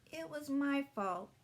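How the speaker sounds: high, loud, slow confession; brave. A narrator's reading. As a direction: own up bravely, little girl. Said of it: "Sue said bravely".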